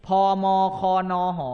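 พ ม ค น ห spelled out slowly, one by one; slow, deliberate recitation of letters; slow letter drill. Shown as a demonstration. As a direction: space out the letters พ ม ค น ห for learners. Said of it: "ให้ออกเสียงเป็น".

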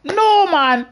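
loud, high drawn-out wail; a long "oh no" at losing; dismayed cry. Real, not acted. Loses rank in the game.

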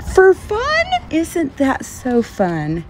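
gushing Utah accent, lightly hammed up; Utah local. Showing off Utah sayings to viewers, playful Utah accent. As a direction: gush cheerily like a Utah local. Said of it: "little things like that we like to say".

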